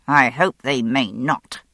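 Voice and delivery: slow, a touch of menace in the officer's voice; viciously determined. Acted. An officer wanting to catch the killer, lightly vicious. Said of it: "said a viciously determined voice".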